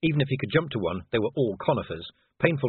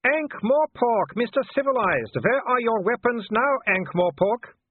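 much higher, loud taunting werewolf voice; Wolfgang; 12 semitones higher, 5 dB louder, slower than usual. Acted. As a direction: sneer at the cornered man from below. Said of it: "It was Wolfgang's voice".

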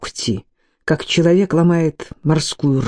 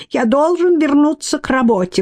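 high, piping little voice; squeaky thin voice; 9 semitones higher than usual. A narrator's reading. Tiny scientist insists to Mordlyuk, squeaking thinly. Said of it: "пропищал он тоненьким голоском".

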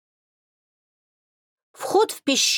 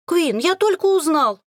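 put-on higher, louder boyish cry; excited exclaim; 9 semitones higher, 3 dB louder than usual. A narrator's reading. Liam rushing in to Quinn, excited exclaim. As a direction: burst in with the news. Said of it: "воскликнул парнишка".

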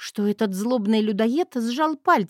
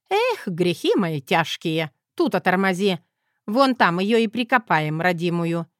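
put-on old granny; 3 dB louder than usual. Granny teases her son in a chase, feisty old woman voice.

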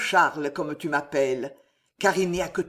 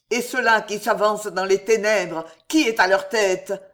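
building to a scream; 2 semitones higher, 6 dB louder than usual. Acted. The raving king calling his guards against assassins, building to screams. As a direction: panic climbing until he howls for help.

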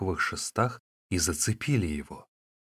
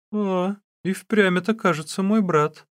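high, louder exclamation of recognition; startled, high-pitched discovery; surprised recognition; 11 semitones higher, 5 dB louder than usual. A narrator's reading. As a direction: realise it with raised, astonished voice. Man suddenly recognizes his sworn brother.

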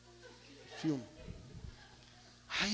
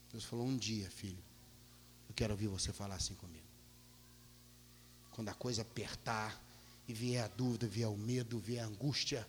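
much softer, low gentle fatherly voice; tender voice of God; 7 semitones lower, 10 dB quieter than usual. Acted. God gently teaching the preacher to trust, soft and tender. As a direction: speak as a loving God to his son. God's voice speaking to him.

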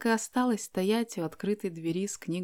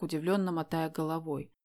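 usual speaking voice

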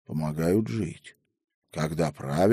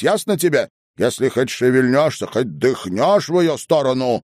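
loud, higher, fast berating; furious tirade; 6 semitones higher, 5 dB louder than usual. A narrator's reading. Headwoman threatens grandmother, furious loud tirade. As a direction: rage at her without pause. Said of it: "в ледяном бешенстве".

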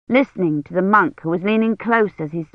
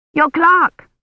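pleased; 10 semitones higher, 5 dB louder than usual. A narrator's reading.

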